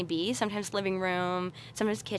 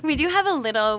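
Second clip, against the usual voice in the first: laughing; 7 semitones higher, 6 dB louder than usual. Real, not acted. Laughing with host.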